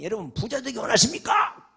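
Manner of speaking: high, loud imitated pulpit question; rousing preacher's call. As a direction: fire the question at the congregation. (강사처럼 높고 크게 외치는 질문)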